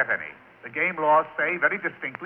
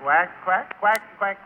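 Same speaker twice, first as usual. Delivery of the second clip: quacking like a duck; 4 semitones higher, slower than usual. Shown as a demonstration. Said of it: "you have to quack like a duck".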